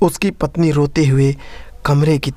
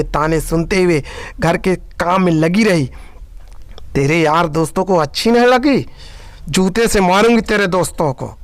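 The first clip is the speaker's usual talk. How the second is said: angry scolding; 2 semitones higher than usual. Acted. सास बेटे को कोसती है.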